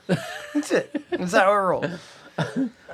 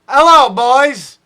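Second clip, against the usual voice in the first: put-on loud, high, slow British accent; 8 semitones higher, 14 dB louder, slower than usual. Host greeting the boys in a mock British accent. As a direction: greet the boys like a hammed-up Brit. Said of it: "That was my, uh, accent".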